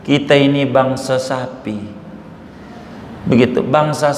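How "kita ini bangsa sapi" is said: lightly acted gentle, lower voice; a touch of motherly softness, pitched down; gentle mother cow. Mother cow explaining to her calf, mildly gentle.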